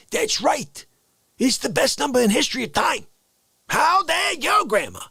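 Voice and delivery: high, loud mock-indignant protest; hammed-up outrage defending the number thirteen. Grandson playfully scolding grandma to make her laugh, high loud mock outrage. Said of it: "I responded this way".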